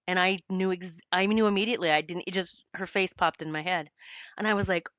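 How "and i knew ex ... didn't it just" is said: ordinary talk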